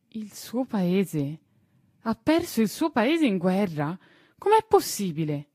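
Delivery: put-on a child who can't believe it; young boy Tistù. Tistù asking the gardener about Carolus, disbelieving boy voice.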